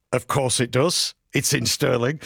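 playful put-on Scottish accent. Radio host hyping the Stirling line-up, mock Scottish accent. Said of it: "That's my Scottish accent for you".

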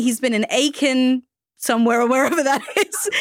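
said through a laugh; giggling while she talks. Real, not acted. Host laughs introducing guest.

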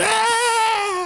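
sudden high shrieking cry; mock scream. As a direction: shriek like the terrifying monkey. Remembering the scratching monkey.

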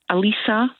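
Elisa said "uh-LEE-sa"; mispronounced name. Shown as a demonstration. Caller showing host how people get her name wrong, Elisa as uh-LEE-sa. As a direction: say Elisa in three syllables, "lee" in the middle. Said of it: "How often is your name mispronounced".

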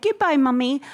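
a hint of a proper English child saying goodbye; posh English kid. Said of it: "that's how he speaks".

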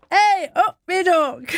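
high, slow mock American twang on hey up me duck; a light copy of Dolly's hey up me duck. Presenter echoing Dolly's greeting in a mock twang. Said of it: "you didn't quite get it right".

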